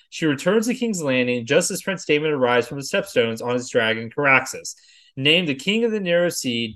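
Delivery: brisk-sounding recap reading with lifted sentence openings; synopsis read-aloud. Acted. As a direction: read it off the page like an episode summary. Reads episode synopsis aloud.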